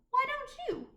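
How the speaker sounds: high, teasing question; playful challenge. Acted. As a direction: toss it back with a grin. Librarian teasing suggestion.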